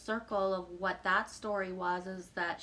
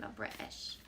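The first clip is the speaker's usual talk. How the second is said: whispered aside; 10 semitones lower, 8 dB quieter than usual. Pretend. Jokingly insists she's British.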